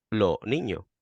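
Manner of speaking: "lo niño" with both final S sounds simply dropped. Shown as a demonstration. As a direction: clip the S off "lo niño". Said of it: "comiéndome la S".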